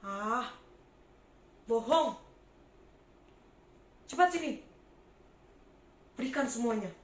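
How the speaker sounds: loud demanding tax collector; greedy tax collector shouting at a poor trader; bossy bully. Acted. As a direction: bark orders at the trader, grabbing her money.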